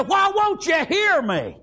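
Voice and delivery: drawn-out plea to God; crying out in appeal. Acted. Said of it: "I'm crying out to you".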